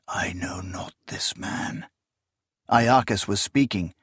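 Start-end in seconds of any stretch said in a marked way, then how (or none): 0.1-1.9 unvoiced, breathy whisper. The hanging shadow on the glass denying him, whispering.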